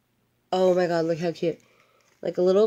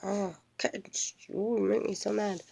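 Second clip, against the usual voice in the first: mock prissy cat; 5 semitones higher, 4 dB quieter than usual. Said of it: "So she's like".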